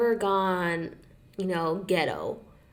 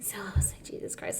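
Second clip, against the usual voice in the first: muttered aside; 10 dB quieter than usual. Retold or imitated. Annoyed aside while retelling.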